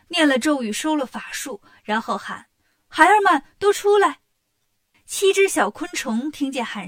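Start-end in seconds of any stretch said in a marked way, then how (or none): 2.9-4.2 loud, high call to the little ones. Acted. Demon mother loudly calling her insect children out. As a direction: summon the children across the cave.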